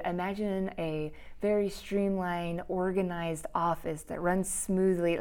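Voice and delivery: soft, sultry and relaxed. Shown as a demonstration. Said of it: "some kind of weird, s-, sultry voice".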